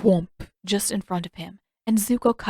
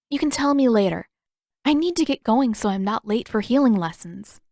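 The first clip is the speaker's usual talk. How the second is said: Katara hurried; 3 semitones higher, 4 dB louder than usual. Acted. Katara rushing off to healing lessons, lightly voiced and brisk. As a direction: brush him off, she's in a hurry.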